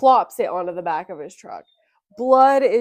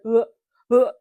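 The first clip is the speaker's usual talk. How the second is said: imitated gag, holding it down; mock queasy heaves after breakfast; retching; 6 dB louder than usual. Full-stomach daughter imitating fighting back vomit. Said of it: "trying to keep it down".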